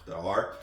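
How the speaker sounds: R as a French throaty uvular sound; back-of-throat French "R". Shown as a demonstration. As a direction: make "R" a guttural French R. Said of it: "in French, there's a".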